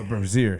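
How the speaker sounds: "brazier" said bra-ZEER, stress on the end; echoed mock correction. Speaker accepting a friend's joke correction, "brazier" said bra-ZEER. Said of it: "It's pronounced".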